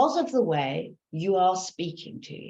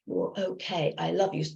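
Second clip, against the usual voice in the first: comforting self-talk; 3 dB quieter than usual. Shown as a demonstration. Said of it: "Comfort yourself".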